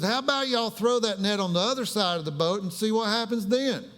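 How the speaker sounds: a light Appalachian holler from shore; McDowell County talk. Retold or imitated. Jesus calling to fishermen in Appalachian dialect. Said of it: "McDowell County language".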